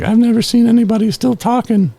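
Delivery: retold cop, squealing in shock; astonished cop. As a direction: play the stunned officer in disbelief. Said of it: "the cop was freaking out".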